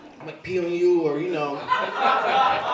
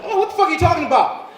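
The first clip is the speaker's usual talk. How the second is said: put-on much higher, fast and loud teen scoff; kids mocking; 11 semitones higher, 7 dB louder, faster than usual. Sons scoffing at dad's ignorance, high fast mockery. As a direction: scoff like a know-it-all teen. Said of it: "they're like".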